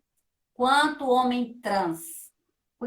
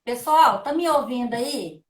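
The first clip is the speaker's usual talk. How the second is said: raised voice, checking if heard; calling out; 5 dB louder than usual. Real, not acted. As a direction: call out to the group over dead audio. Calling out, audio not working.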